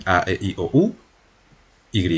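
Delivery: A, E, I, O, U, Y named with Spanish vowels; Spanish letter names. Shown as a demonstration. Teacher lists the French alphabet's vowels for Spanish-speaking learners, Spanish letter names. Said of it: "Lo estoy pronunciando en español".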